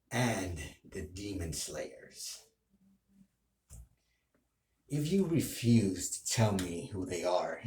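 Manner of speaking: lightly voiced sinister villain demanding answers; villain role play. Villain threatening Tanjiro over his sister, softly menacing. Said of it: "that's role play".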